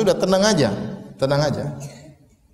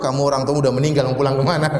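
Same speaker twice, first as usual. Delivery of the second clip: low-pitched, matter-of-fact comeback; deadpan husband; 6 semitones lower than usual. Acted. Husband answering wife who wants her parents, deadpan. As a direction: drop the pitch for the husband's retort.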